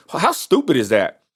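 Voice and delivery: slow words through a laugh; chuckling at how dumb it is; laughing scoff. Real, not acted. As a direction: laugh it off in disbelief. Scoffs at critics' logic.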